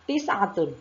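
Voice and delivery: "Tis'atun" with ta from the tongue tip; pronunciation demo. Shown as a demonstration. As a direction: model "Tis'atun" carefully, falling at the end. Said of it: "Tetap keluarnya huruf ta adalah di ujung".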